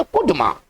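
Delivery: कुडमा read as a whole word; pronunciation demo. Shown as a demonstration. Teacher showing students how it is read, कुडमा said clearly. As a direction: model कुडमा with the last syllable open. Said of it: "इसको पढ़ेंगे".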